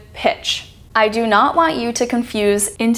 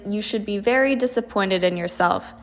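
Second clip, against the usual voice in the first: soft, pitch sinking toward "yourself"; understated disappointment, sliding downhill to "yourself"; quiet letdown with a fall on "yourself"; disappointed falling intonation; 6 dB quieter than usual. Shown as a demonstration. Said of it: "goes downhill because of the disappointment".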